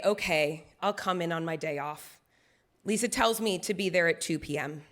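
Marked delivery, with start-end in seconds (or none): 0.1-2.2 low, reluctant agreement; begrudging. Retold or imitated. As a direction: give in grudgingly, voice dropped low. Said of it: "I begrudgingly say".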